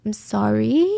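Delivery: "sorry" lifted at the end like a question; rehearsed apology. Retold or imitated. Suspect practising versions of sorry, "sorry" turned upward. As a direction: let "sorry" rise, testing the cadence. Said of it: "one line in different emotions".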